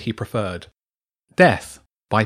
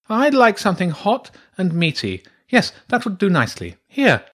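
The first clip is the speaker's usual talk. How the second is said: high-pitched, relishing badger; pleased badger priestess; 9 semitones higher, 4 dB louder than usual. Badger priestess ordering her pizza, pleased.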